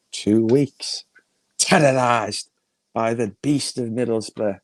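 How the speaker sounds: slow, halting tale with long pauses; mock-dramatic storytelling. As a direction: spin gossip out like a solemn saga. Mock-solemn telling of gossip.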